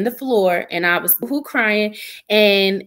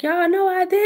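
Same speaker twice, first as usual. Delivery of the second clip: mock indignant; 8 semitones higher than usual. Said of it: "And I'm like".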